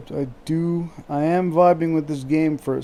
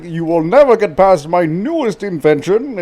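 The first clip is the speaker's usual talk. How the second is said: a hint of a gloating villain, louder; 6 dB louder than usual. Friend acting out Cortex, lightly voiced gloating villain. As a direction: gloat it like a cartoon mad scientist. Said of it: "it's like".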